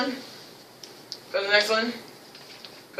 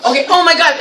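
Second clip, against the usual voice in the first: higher, playful alarm; mock alarm; 5 semitones higher, faster than usual. Teacher imagines a beast in the jungle, mock alarm. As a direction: react as if startled, for show.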